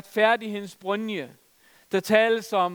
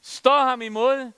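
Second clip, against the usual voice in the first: higher, louder and slow, stress on "ham"; emphatic command; 5 semitones higher, 5 dB louder, slower than usual. Shown as a demonstration. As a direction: command it with force.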